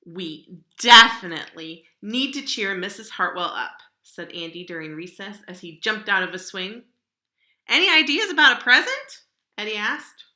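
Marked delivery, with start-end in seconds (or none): 0.0-3.8 put-on loud, determined kid's voice; rally the class; eager kid. Kids plan to cheer teacher. 7.7-9.2 put-on high, loud, eager kid asking; eager question. Eddie asks eagerly.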